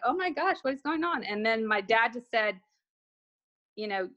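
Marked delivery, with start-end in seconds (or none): 0.0-1.2 high-pitched imitation of bewilderment; mildly hammed-up disbelief, voice lifted; retold overwhelmed reaction. Daughter hearing from her late dad, retold bewilderment. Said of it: "It was very emotional".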